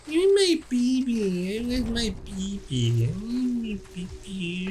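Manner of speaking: put-on high, slow, breathy wailing for a baby; mock ghostly wail. Parodying the boss's lines, a hammed-up mournful wail. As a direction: wail like a tortured soul, fading to a whisper.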